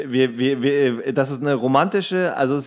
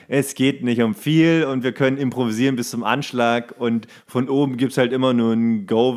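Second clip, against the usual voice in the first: ordinary delivery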